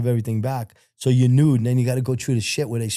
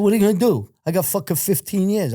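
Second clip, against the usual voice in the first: defiant outburst; 7 semitones higher than usual. Retold or imitated. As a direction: dare the guard to do anything. Defying the guard over underwear.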